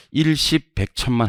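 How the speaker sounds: mock counting digit by digit; counting place values. Teacher mimics students caught counting places, mock counting. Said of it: "하다 걸려봐".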